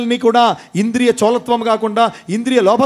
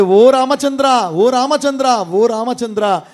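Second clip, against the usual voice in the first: a crying call to Rama, slow and higher at first; mild retold wail; 4 semitones higher, slower than usual. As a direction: call out to Rama in devotion, fading on the third. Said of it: "గగ్గోలు కేకలు పెట్టి".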